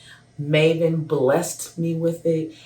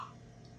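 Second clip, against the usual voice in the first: sharp breathless gasp of joy; excited gasp; 28 dB quieter than usual. Retold or imitated. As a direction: gasp like you can't believe it. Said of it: "so happy jumping up and down".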